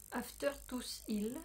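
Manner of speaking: English name said slowly in a strong French accent; heavy French accent on English. Real, not acted. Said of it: "Super accent". (nom anglais prononcé lentement avec un fort accent français)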